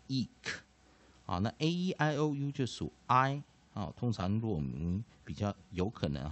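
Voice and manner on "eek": eek as a short "ik" with a released k; short i ending. Shown as a demonstration. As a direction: give eek a short vowel and final k. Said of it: "我们就念eek". (eek 念成短母音加 k)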